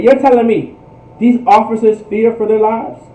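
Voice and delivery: ordinary delivery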